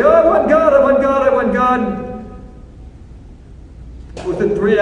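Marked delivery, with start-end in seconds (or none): 0.0-2.2 mock the crowd eagerly claiming God; eager mock insistence. Congregation eagerly insisting they want God. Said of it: "You're all gonna say".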